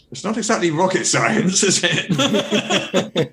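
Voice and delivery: condescending retort, tickled by it; amused mock condescension. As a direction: deliver the mocking put-down through a laugh. Retold sketch punchline, laughing.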